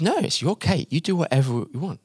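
soft reassurance, starting high; light, quick, kindly reply; reassuring. Retold or imitated. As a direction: gently let her off the hook. Tony reassures Agnes about the cake.

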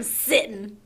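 "sitting" said as sittin'; dropped g. Shown as a demonstration. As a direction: end "sitting" on a plain n, no g. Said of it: "it's written that way, not sitting".

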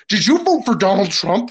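lightly acted incredulous accusation; mildly upset, imitated. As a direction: imitate an upset woman demanding an answer. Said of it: "she was, like, really upset by this".

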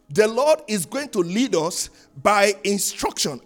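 "The Lord is going to lead us by instruction" drawn out slowly, each word weighed; slow it right down to press the point home; slow, weighty repetition. Shown as a demonstration. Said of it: "repeats it slowly".

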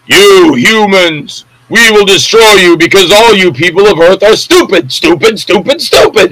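slow, sneering B-movie alien threat; lightly voiced alien overlord; booming arrogant alien overlord. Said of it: "I'm gonna do an homage to Plan Nine".

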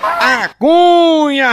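drawn-out high shout of A Cunha; hollered catchphrase; long shouted catchphrase. Real, not acted. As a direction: stretch the name in a long shout.

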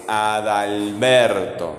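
low, very slow "Adalberto" with stretched BER; stress on BER. Shown as a demonstration. Teacher asking which sounds strong, stress on BER in "Adalberto". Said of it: "¿Cuál suena fuerte?".

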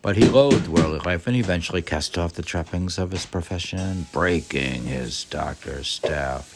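quick book reading, slowing at the end; fast formal reading voice; brisk reading aloud. Acted. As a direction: read the passage straight through. Reads the biography aloud.

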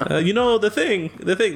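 a failed, half-hearted Biden voice; Biden impression. Trying Biden for his friend, badly faked. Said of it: "that's Biden. I can't do it".

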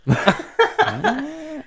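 squealing high-pitched laugh. Real, not acted. Laugh at catapult story.

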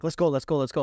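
mildly acted getaway urgency; urgent hurrying. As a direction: hustle a friend out, voice lifted. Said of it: "We're screaming".

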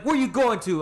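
high-pitched questioning cop voice; imitated cop. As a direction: play the officer, pitched well up. Acts out cop questioning him.

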